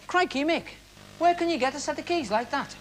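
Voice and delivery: high, wide-eyed wonder; amazed thought. Retold or imitated. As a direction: gasp it in amazement. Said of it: "And I thought".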